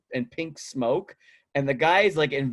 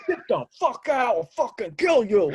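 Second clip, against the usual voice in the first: high-pitched mock yell; angry prank victim; 11 semitones higher, 3 dB louder than usual. Startled shopper yelling at the prankster, mock fury. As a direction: act out a startled, threatening outburst.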